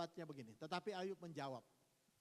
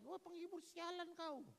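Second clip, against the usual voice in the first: slow, higher, sneering retort; annoyed Job; 10 semitones higher than usual. Retold or imitated. Job fed up with his visitors, mock angry. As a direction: spit it at the useless friends. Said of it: "Saking mangkel ya Ayub itu".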